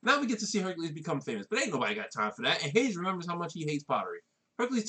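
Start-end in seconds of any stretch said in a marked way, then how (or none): 1.5-2.6 lower-pitched meme quote; meme catchphrase voice. Retold or imitated. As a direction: toss off the viral line in a lower voice. Meme catchphrase dropped into recap.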